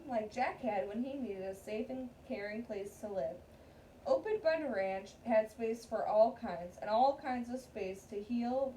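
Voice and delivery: steady read-aloud storytelling voice; story narration. Acted. Teacher reading a picture book to her class, read-aloud narration.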